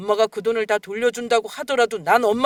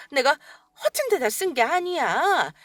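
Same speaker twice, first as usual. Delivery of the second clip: ordinary talk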